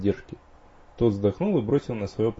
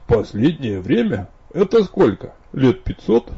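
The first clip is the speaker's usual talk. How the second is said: smirking tease; 4 semitones higher, 8 dB louder, slower than usual. Acted. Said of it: "ухмыльнулся под стать своей жёнушке".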